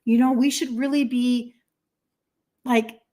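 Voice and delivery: slow, lightly voiced offended mom; imitating mom. Mom reminding her kids they are half Swedish, lightly imitated offense. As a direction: draw it out like a mildly affronted mom. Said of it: "So this is my mom".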